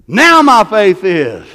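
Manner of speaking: now leaned on, very slow and falling; stress on now. Real, not acted. Preacher pressing a point on the congregation, now stressed slowly. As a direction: drag out now faith is. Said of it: "repeated for emphasis".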